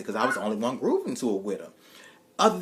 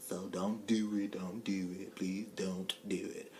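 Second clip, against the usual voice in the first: slow, softer, lower plea; soft pleading; 5 semitones lower, 9 dB quieter, slower than usual. Shown as a demonstration. Soft plea to the audience before the Hey Paris shoutout. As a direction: beg them gently not to. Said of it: "my Hey Paris voice".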